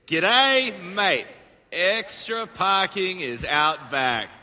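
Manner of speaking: hammed-up Australian accent. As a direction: read the sign like a jokey Aussie. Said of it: "in your best Australian accent".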